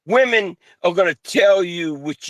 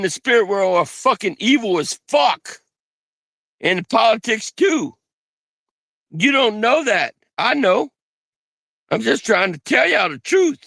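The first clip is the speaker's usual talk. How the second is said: high, heated outburst; shouting; 5 semitones higher than usual. Real, not acted. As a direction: shout it out in frustration. Heated rant about evil.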